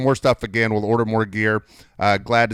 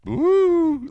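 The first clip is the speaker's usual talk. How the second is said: surprised ooh; 5 dB louder than usual. Retold or imitated. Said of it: "Jake's like".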